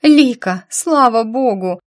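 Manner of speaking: high, loud, tearful relief; tearful cry. A narrator's reading. Girl sobbing to Lika on video call, loud tearful relief. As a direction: cry out her name through tears. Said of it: "сквозь слёзы воскликнула девочка".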